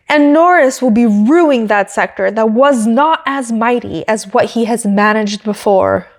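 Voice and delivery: lightly imitated British commentator accent; a hint of a posh British commentator, quoting the line; mock British commentator. Vlogger quoting a British commentator, in a light mock British accent. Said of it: "It's just the most British sentence".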